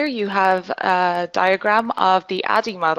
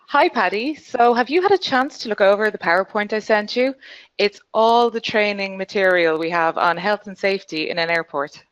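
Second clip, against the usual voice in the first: exaggerated acting; 2 semitones higher than usual. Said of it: "I might exaggerate slightly".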